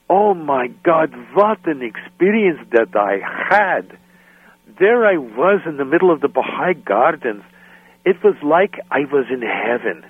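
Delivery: slow, swooning "oh my God"; mildly hammed-up dreamy enthusiasm; gushing rapture. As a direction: lightly mimic a starry-eyed mother. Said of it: "She goes on and on like this".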